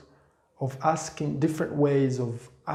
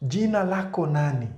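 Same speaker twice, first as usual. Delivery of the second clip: quick Swahili demo; 3 semitones higher, 3 dB louder, faster than usual. Shown as a demonstration. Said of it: "Jina, it's name".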